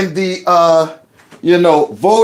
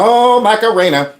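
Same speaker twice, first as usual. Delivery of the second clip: mock party reaction; 5 semitones higher than usual. Party crowd as a song comes on, mock excited. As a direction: imitate a crowd hearing the song come on. Acting out the DJ's stupid song starting.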